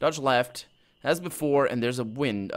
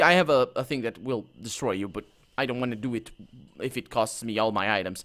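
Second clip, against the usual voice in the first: ordinary delivery, nothing marked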